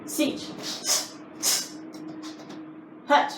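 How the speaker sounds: barked Japanese count, one per strike; sharp martial arts commands. Shown as a demonstration. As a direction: call each count crisply like a sensei. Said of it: "You're gonna do ten more".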